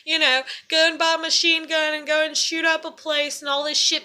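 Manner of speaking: lightly mocking panicky onlookers; mock alarmed viewers. Imagined morons reacting to her video, mildly mocking alarm. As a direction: mimic overreacting gossips in a running stream. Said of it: "a bunch of morons might see this and might be like".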